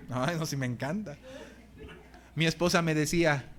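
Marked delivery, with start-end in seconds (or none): 0.1-1.2 laughing mock delight. Mock convert sighing he loves it.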